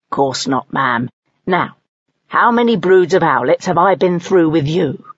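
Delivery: a hint of a proud old servant; lightly voiced snake. Nest snake reassuring the mother owl, lightly voiced.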